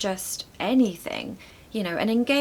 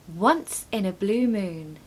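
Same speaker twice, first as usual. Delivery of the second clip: slow, clear model of "once in a blue moon"; slower than usual. Shown as a demonstration. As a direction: say it slowly for learners to copy. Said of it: "Number three".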